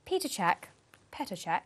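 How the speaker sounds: a lightly put-on posh newsreader read. Co-host reads the weekly stats in a mildly posh voice. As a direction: read it as if you were a very proper English announcer. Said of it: "Okay, do your posh voice".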